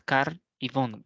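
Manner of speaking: "car y bon" slowly, each syllable apart; "car", then "bon", as two slow beats. Shown as a demonstration. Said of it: "tiene dos sílabas".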